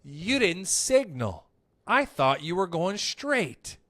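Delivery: slow, even and unbothered; very calm answer. Retold or imitated. To an upset driver at the light, slow and calm. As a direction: cut him down with calm. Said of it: "a very calm answer".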